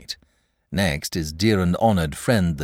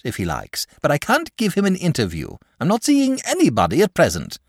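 a hint of a whining dragon, pitched higher; lightly voiced fretful dragon; 7 semitones higher, 3 dB louder than usual. A narrator's reading. Dragon refuses to meet Saint George, mildly whining. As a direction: dragon fussily refusing, a touch petulant.

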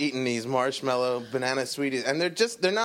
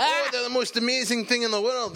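mock rapture; 8 semitones higher than usual. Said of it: "he's just like".

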